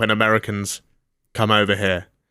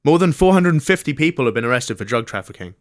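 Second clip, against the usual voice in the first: slightly lifted newsreader delivery; news read; 4 semitones higher than usual. Acted. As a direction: read the police report out to listeners. Reads out a news item.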